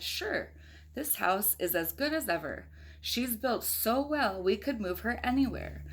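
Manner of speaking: put-on reading a picture book aloud to a child; steady storybook read-aloud; story narration. A narrator's reading. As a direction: tell it like a bedtime story. Parent reads picture book aloud.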